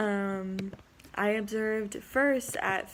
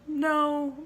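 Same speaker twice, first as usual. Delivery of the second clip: sharp, high, loud no; emphatic refusal; firm no; 7 semitones higher, 5 dB louder than usual. Retold or imitated. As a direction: shut him down flat out. Refusing boy's number request.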